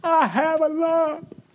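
high, slow, drawn-out crying voice; stretched-out high whimper; mock tearful wail. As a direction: imitate a crying girl forcing herself to speak up. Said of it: "she came down and she's crying".

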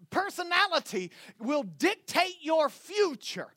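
emphatic sermon delivery; impassioned preaching. Real, not acted. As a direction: preach it with rising conviction, stretching the key words. Preaching at full force.

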